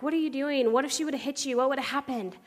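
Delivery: imitated kids' urgent questions; alarmed kids. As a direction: pile on questions in high-pitched disbelief.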